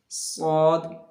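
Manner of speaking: सौद said heavy, mouth filled round the s; full-mouthed saad. Shown as a demonstration. Teacher demonstrating the heavy letter, mouth full. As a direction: fill the mouth and say सौद thick. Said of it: "सौद को जो है थोड़ा सा मुंह को भरना होता है".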